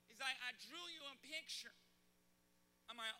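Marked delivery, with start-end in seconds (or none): 0.4-1.8 little son. Retold or imitated. Son quoted from back seat.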